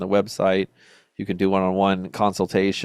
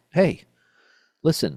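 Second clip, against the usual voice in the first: sharp, higher-pitched snapping; 8 semitones higher than usual. Retelling how Jordan spoke to his manager: imitating Jordan snapping at someone. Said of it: "snapped on him".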